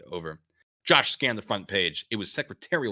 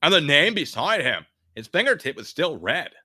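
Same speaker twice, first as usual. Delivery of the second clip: California dude; 7 semitones higher, 8 dB louder than usual. Acted.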